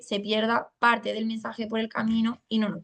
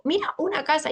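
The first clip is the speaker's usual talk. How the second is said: higher, bright teacherly model of "una casa"; modelling the phrase; 6 semitones higher than usual. Shown as a demonstration. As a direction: show the child the full phrase, pitched up. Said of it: "Es que le digo".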